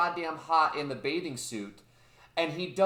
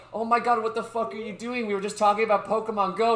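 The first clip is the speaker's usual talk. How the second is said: higher-pitched mock protest; retold outraged girl; 5 semitones higher, 3 dB louder, faster than usual. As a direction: imitate a girl's indignant outburst. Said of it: "immediately the girl's like".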